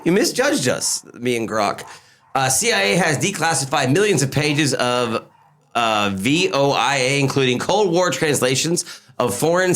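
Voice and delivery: reading an AI answer like a robot; lightly robotic reading voice. Acted. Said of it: "Doing the robot voice".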